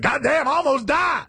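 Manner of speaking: mock exclaim. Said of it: "you think".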